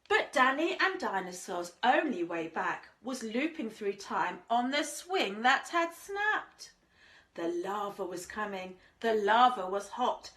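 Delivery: lilting rhymed storybook read; sing-song storyteller voice; reading to children. A narrator's reading. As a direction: read it like a bedtime picture book. Rhyming story read aloud.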